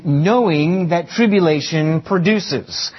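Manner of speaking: "knowing" lengthened and emphasized in a slow phrase; stress on knowing. Shown as a demonstration. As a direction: dwell on the word "knowing". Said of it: "Emphasis on the word knowing".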